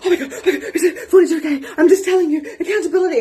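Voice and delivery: high, loud, laughing rush; frantic laugh. Retold or imitated. Ringing her husband in a frenzy, high laughing blurts. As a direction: gabble it at him through laughter. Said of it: "rang my husband and said".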